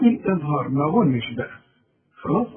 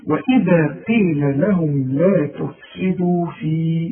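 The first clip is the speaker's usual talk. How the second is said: slow measured recitation up to في; slow teaching recitation; slower than usual. Shown as a demonstration. Teacher reciting slowly to show the stop. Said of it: "وقف تعليم عشان تتعلم".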